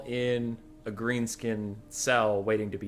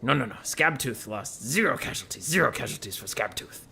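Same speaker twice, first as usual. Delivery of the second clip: Skaven warlord. Acted. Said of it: "the Skaven chittering".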